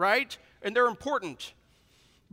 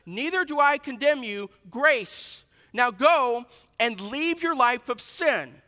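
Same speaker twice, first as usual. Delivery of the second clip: Jesus quoted loudly; 5 semitones higher, 6 dB louder, slower than usual. Acted. Jesus quote, louder repeat.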